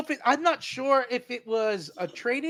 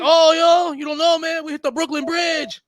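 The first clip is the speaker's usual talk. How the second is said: higher, worried crewman blurting the news; panicked crewman; 8 semitones higher, 4 dB louder than usual. Retold or imitated. Crewman tells captain they hit the bridge, higher worried voice. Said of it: "He's like".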